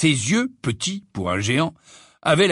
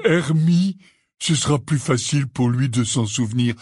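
hesitant Hagrid; 2 semitones higher than usual. Acted. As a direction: fumble the name gently.

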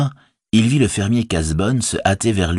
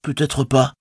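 higher, mildly abashed reply; sheepish; 8 semitones higher than usual. A narrator's reading. Sam answers Rosie's reproach, sheepish. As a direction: admit it with embarrassment. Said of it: "répondit Sam penaud".

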